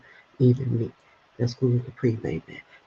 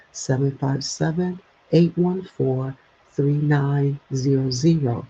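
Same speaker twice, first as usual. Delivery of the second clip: ad read. Real, not acted. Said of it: "I'm gonna read it to you".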